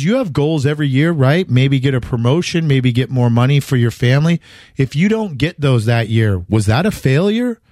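imitating a Greek star answering a reporter with a light accent. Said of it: "in his Greek accent".

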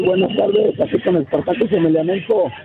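raspy voice from shouting; hoarse, worn-out throat. Real, not acted. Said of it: "Pues no tan bien te escuchas".

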